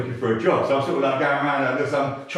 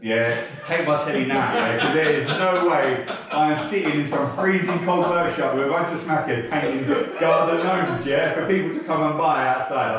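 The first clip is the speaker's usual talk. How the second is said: higher, worked-up retelling of a refusal; indignant refusal; 4 semitones higher, 4 dB louder than usual. Retold or imitated. Prisoner refusing gnome painting to an officer, comically indignant. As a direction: dig your heels in, half laughing.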